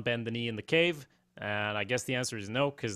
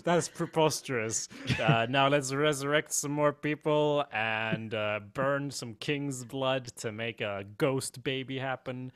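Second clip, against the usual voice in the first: mock haughty queen. Continuing mock Daenerys.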